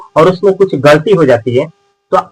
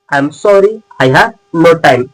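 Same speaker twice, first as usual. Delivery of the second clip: slow teaching repeat; much slower than usual. Shown as a demonstration. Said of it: "आप English में जरूर बोलिएगा".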